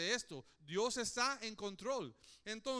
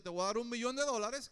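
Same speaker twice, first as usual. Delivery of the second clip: excited offer; 6 dB louder, faster than usual. Pretend. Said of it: "y te digo".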